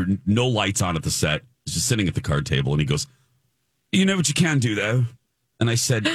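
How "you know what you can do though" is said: put-on British accent. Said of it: "a British set guy".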